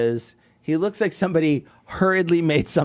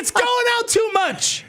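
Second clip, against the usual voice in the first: high, slow mock yelp of panic. Retelling a pottery class mishap as a high, slow mock yelp. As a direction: cry out as the clay spins out of control. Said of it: "You're like".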